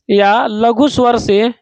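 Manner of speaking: या लघु स्वर से spoken slowly for notes; slow dictation. Shown as a demonstration. Teacher dictating notes to students, slow. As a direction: dictate each word slowly. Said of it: "ह्रस्व स्वर या लघु स्वर से".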